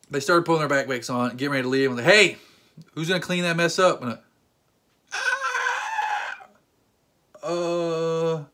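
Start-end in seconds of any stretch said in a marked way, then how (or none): 2.0-4.0 loud sharp hey; calling out kids. Retold or imitated. Man scolding teens over spilled sauce, loud call-out. 5.1-6.5 sudden high shriek; high yelp. Retold or imitated. Man startling the kids, sudden high shriek.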